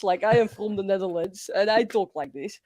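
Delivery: light Dutch accent demo. Shown as a demonstration. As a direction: show off a Dutch accent in English. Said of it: "I can do the Dutch accent like this".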